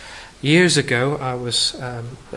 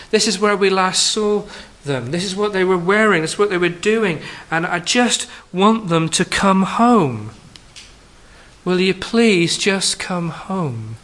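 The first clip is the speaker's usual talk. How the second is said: a slightly louder, pleading father, slowing at the end; desperate father's plea; 5 semitones higher, 4 dB louder than usual. Retold or imitated. Father appealing for his missing teenager, pleading. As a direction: beg your lost child to come home. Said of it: "the father says".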